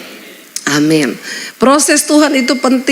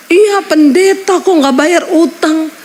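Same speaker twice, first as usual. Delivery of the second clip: taunting debt collector; 7 semitones higher, slower than usual. Retold or imitated. Debt collector voiced in story.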